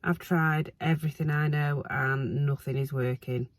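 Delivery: hoarse from hay fever, croaky throughout; croaky, rough hay-fever voice. Real, not acted. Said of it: "I'm sorry about my croaky voice".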